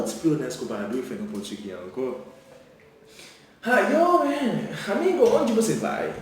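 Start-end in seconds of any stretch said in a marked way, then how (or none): 3.6-6.1 loud, high-pitched hail to a buddy; acted street greeting, pitched way up; calling out to a friend.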